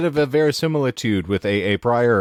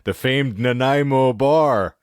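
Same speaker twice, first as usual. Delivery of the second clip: higher, lilting mock Newfoundland accent; affected Newfie accent; 4 semitones higher, 3 dB louder, slower than usual. Host teasing friends about Nanaimo bars, affected Newfie accent. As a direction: savour it in a hammed-up Newfie lilt. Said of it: "So I would adopt that affectation".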